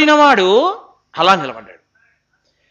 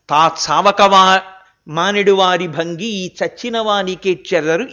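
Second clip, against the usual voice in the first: measured recital of classical Telugu verse; verse recitation; 4 semitones lower than usual. Acted. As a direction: recite it like old scripture poetry.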